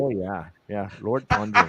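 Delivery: lightly put-on Irish; a hint of mock-Irish commentator; Irish accent. Repeating the bit for co-hosts, Irish accent. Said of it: "Gotta do my Irish accent".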